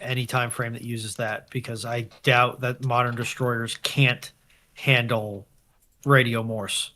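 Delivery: ordinary talk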